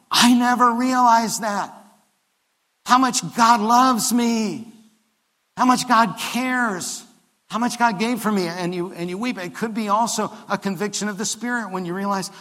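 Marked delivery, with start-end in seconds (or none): 0.1-8.5 joyful realization. Acted. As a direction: let the joy break out, high and loud. Preacher voicing joyful realization.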